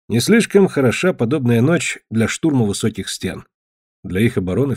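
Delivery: plain reading voice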